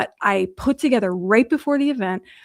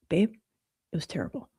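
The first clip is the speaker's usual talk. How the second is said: retold crying; 2 semitones lower, 7 dB quieter, faster than usual. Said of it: "I cry on the phone in the lobby".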